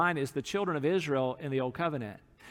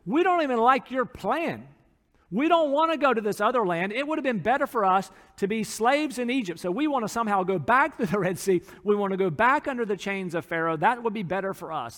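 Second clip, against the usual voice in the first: mock grumbling crowd; 4 semitones higher, 4 dB louder than usual. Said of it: "the ultimate expression of their grumbling was this".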